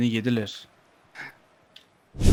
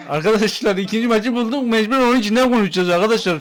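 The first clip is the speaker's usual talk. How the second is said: echoing room, like a bathroom; echoey bathroom sound; 4 semitones higher, faster than usual. Real, not acted. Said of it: "Ses yankı yapıyor".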